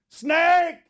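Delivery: high, loud panicked shriek; shrieking snake alarm in a high voice; retold scream. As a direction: shriek it like she's seen a snake. Mother-in-law screaming about snake.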